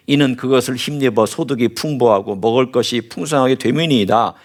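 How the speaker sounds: measured, solemn Bible reading; scripture reading. Acted. Preacher reading Habakkuk's complaint to the congregation, solemn. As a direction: read the prophet's prayer with gravity. Reads Habakkuk's prayer aloud.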